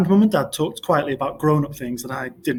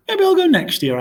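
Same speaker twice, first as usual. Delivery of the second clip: sulky; 6 dB louder than usual. A narrator's reading. Boy sulking.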